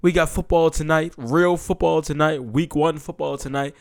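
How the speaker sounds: pumped season opener; hyped up. Real, not acted. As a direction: announce it like kickoff is here. Hyped kickoff of football season.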